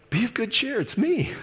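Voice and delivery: high, gentle voicing of Jesus, lightly done; a light touch of a kindly Jesus calming fear; Jesus reassuring. Preacher voicing Jesus to terrified disciples, high and gentle.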